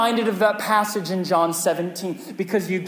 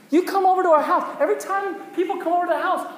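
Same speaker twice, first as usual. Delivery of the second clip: laughing; 11 semitones higher, 4 dB louder than usual. Real, not acted. Laughing story about house changes.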